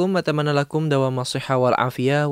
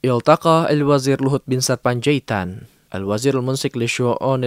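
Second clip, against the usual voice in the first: news read; 3 dB louder than usual. Acted. Reads news bulletin.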